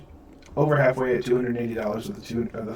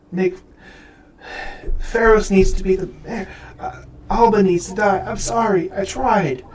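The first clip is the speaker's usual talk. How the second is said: high, louder, frantic excuses; desperate pleading; 7 semitones higher, 5 dB louder than usual. Acted. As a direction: beg forgiveness in halting bursts. Lyle begs and makes excuses.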